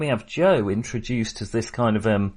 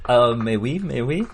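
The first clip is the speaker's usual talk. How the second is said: mock French. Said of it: "doing this entire episode in French".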